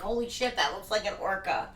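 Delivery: remembered thought. Retold or imitated. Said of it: "I remember thinking that".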